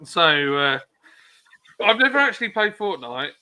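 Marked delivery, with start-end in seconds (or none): 1.8-3.3 words broken by a hiccup. Real, not acted. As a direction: say it through a hiccup. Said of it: "I'm hiccuping".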